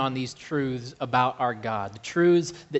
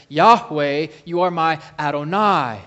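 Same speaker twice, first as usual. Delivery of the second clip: loud proclamation; 7 dB louder than usual. Retold or imitated. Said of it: "He says".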